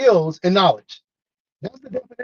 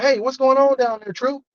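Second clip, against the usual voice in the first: raised pitch, lightly voiced sergeant; retold sergeant's call, pitched up; 6 semitones higher than usual. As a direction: call down to a soldier in a hole, mildly. Sergeant calls down into hole.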